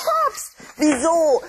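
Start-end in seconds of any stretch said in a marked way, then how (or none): 0.0-0.4 Anstrengungslaut. Acted. Kind schlägt mit Buch nach Kastanie.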